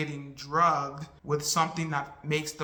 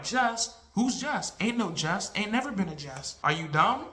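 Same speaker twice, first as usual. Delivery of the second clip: mocking disbelief; 3 semitones higher than usual. Girls denying Jess exists.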